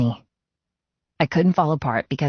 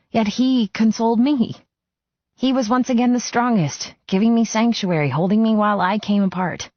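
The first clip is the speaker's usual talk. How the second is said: tearful, rising; 8 semitones higher than usual. A narrator's reading. Cleo narrates, voice rising with tears.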